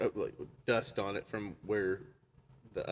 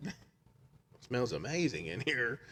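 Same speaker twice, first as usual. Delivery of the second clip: slow echo; slower than usual. Retold or imitated. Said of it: "I'm like".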